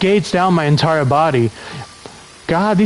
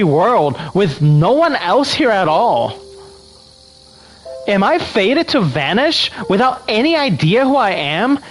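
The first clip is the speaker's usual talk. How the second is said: put-on Valley Girl voice; 3 semitones higher than usual. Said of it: "Do a Valley Girl voice?".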